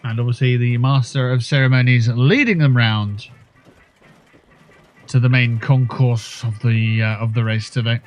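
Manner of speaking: lightly posh festival race commentator; a touch of posh, showy announcing. Pretend. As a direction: announce the parade in a mildly posh voice. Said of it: "just saying it in a posh voice".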